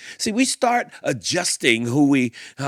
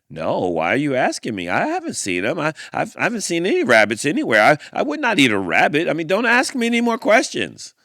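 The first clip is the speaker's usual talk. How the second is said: fast, louder, rising defensive babble; nervous denial; 3 semitones higher, 4 dB louder, faster than usual. Acted. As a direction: protest too much, rushing. Guilty squirrel denies too much.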